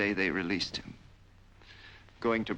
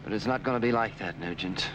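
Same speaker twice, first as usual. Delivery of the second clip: louder and higher, gloating; rising threat; 4 semitones higher, 4 dB louder than usual. Acted. Captor to his victim about his death, louder and gloating. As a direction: push it up with cruel relish.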